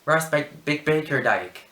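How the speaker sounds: loud, halting Irish roll-call; Irish caller fumbling a surname; Irish lady calling names. Acted. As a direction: stumble loudly over a name in an Irish accent. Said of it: "calling out everybody's name".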